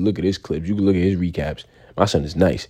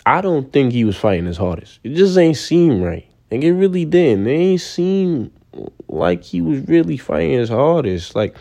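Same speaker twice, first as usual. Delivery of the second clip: normal talking voice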